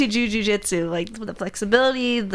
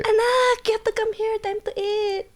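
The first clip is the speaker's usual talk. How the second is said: put-on higher Filipino mom accent, calling her child; imitating Filipino mom; 14 semitones higher than usual. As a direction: call the kid to dinner like a Filipino mom. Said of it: "I will imitate my mom for days".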